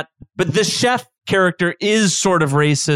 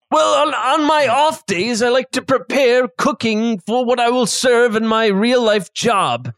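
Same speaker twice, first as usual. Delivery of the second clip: lightly raised chef voice; chef character voice; 5 semitones higher than usual. Acted. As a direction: talk like the chatty chef host.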